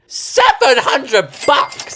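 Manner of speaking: laughing, outraged shock at a price tag; shocked outcry. Real, not acted. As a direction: gasp it out at the price. Price shock while building.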